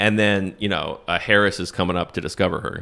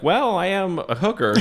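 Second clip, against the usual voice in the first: laughing through it; 8 semitones higher than usual. Acted. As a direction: quote her line while cracking up, pitch up. Hooker line quoted while laughing.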